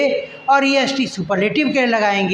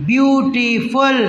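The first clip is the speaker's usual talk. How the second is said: stretched word; much slower than usual. Shown as a demonstration. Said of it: "ब्यूटीफुल तीन बार में बोल पा रहे हैं".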